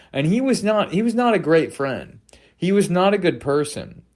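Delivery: high-pitched indignant outburst; heated protest. Real, not acted. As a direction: rise up, outraged at him. Indignant rant about Godard.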